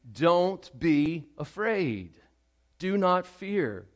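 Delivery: slow, deliberate proclamation; preaching Jesus's words. Acted. Preacher proclaiming Jesus's promise over the dead girl, slow. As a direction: stretch every word out for weight. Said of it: "Jesus says in verse fifty-two".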